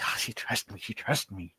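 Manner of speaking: a hint of a soft, moved goblin; touched goblin. Goblin moved that the cleric trusts him, softly. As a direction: breathe it out like a goblin amazed to be trusted. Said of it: "his little eyes go big".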